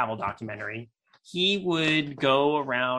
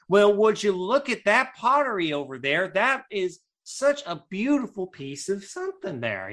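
higher, slow, marvelling host voice; Huell Hauser impression; 7 semitones higher than usual. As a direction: make a big deal over a piece of pottery. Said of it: "Huell Hauser would make a big deal over the smallest thing".

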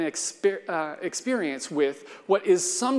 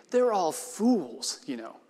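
vindictive; 3 semitones higher, slower than usual. Acted. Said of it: "Then almost vindictively".

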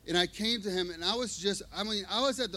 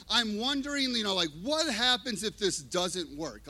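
frustrated pleading; 4 semitones higher, 4 dB louder than usual. Retold or imitated. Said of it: "trembling to almost, like, anger".

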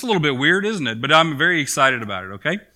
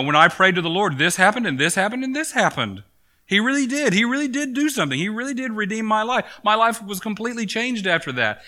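imitating testimony joy; 7 semitones higher than usual. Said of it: "you would start talking about how he did that".

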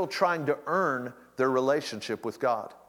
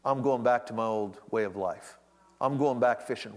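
resigned; 6 semitones lower than usual. Acted. Preacher voices Peter giving up.

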